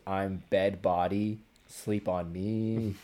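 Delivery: slow, lightly voiced bed monster; monster quote. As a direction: drag out "I'm bed body" slowly, as a mild mock monster. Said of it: "bursts through Eddie's bed and goes".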